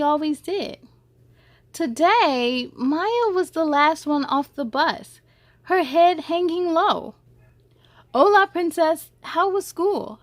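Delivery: gentle, lively storybook narration; reading to children. A narrator's reading. Reading a school story aloud to young kids, gently animated. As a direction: read it like a bedtime picture book. Reads picture book to children.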